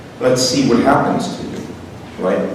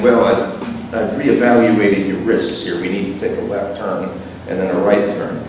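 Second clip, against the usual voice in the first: calculator guy; 4 semitones lower, 4 dB quieter than usual. Acted. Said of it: "as a guy with a, a calculator saying".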